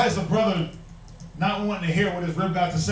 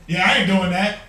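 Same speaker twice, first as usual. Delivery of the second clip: blatant refusal; 6 dB louder than usual. Retold or imitated. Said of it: "blatant and outlandish".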